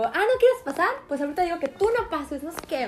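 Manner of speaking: imitating an annoyed coordinator threatening her; annoyed scolding. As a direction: snap back like an irritated coordinator. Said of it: "ella así como que molesta".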